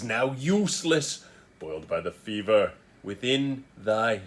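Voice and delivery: measured, stagey Prospero; deliberate theatrical reading; Shakespearean recitation. Acted. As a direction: recite as verse, weighing each phrase. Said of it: "So let me give it a read".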